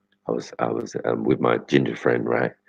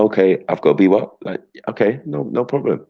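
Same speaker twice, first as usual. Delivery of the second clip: high, obliging mock voice; put-on polite voice; 7 semitones higher than usual. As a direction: switch to a high eager yes-man voice. Acting out code-switching voice.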